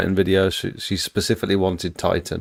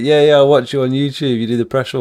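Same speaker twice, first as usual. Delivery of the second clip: excited fan; 6 semitones higher, 6 dB louder than usual. Retold or imitated. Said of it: "He went".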